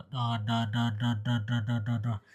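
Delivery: da da da with nose pinched, muffled. Shown as a demonstration. Teacher pinching her nose to test for gunnah. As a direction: pinch the nose and repeat da softly. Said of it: "dipencet hidungnya".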